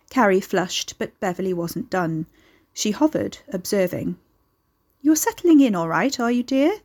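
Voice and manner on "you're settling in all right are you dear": put-on higher-pitched, motherly older woman checking in; maternal concern. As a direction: fuss kindly, lifting on the question. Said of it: "asked in tones of maternal concern".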